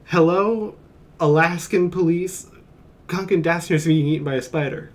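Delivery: mock frantic caller reporting a spider attack; mock emergency phone call. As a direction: ham up a panicked call for help. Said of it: "Just be like".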